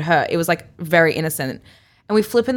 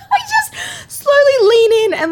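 much higher, slow giggly telling; laughing; 5 dB louder, slower than usual. Real, not acted. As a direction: laugh through the kiss story. Laughing while telling the kiss.

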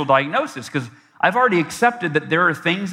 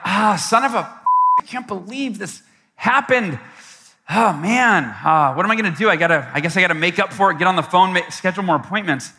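raised, dismayed self-talk; exasperated groan. Retold or imitated. Salesman alone in his apartment after a cancellation, mildly exasperated. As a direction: grumble through the setback, mildly. Retold dismay at lost sale.

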